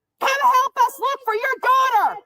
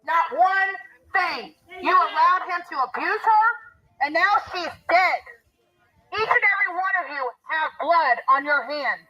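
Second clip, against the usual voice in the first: trembling, accusing voice; shaking with anger; 5 semitones lower than usual. Real, not acted. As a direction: confront them, voice shaking. Confronting the family about the abuse.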